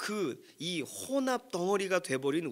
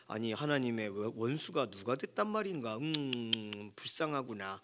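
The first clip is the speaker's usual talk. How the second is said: mock detached pity; 3 semitones lower than usual. Reader wrongly pitying someone else in the passage, mildly detached pity. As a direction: muse with mild pity, as if about someone else. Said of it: "이렇게 읽으면 안 되는 거예요".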